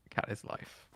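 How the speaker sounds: breathy whisper. Pretend. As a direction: whisper it like a motto. Wordplay said breathily.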